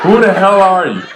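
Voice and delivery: put-on laughing through the girl's line. Retelling a student's cheeky question, laughing. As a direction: repeat it to the audience while laughing.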